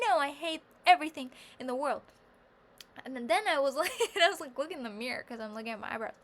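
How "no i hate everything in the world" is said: mock despair. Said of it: "And I was like".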